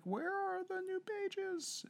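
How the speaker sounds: high, slow, drawn-out question; eager fan voice. Retold or imitated. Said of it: "and she's like".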